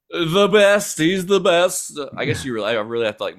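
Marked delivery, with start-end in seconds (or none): 0.1-2.0 slow, drawn-out hint of Trump; slow mock Trump with lips pushed out; Trump impression demo. Shown as a demonstration. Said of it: "move my mouth and lips to do it".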